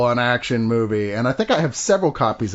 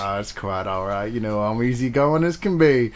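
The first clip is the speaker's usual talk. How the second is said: easygoing cowboy; 5 semitones lower than usual. Acted. Replies in the western skit.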